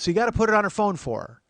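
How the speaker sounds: high, loud imitated aunt; nagging aunt. Aunt checking on nephew's data entry, nagging voice.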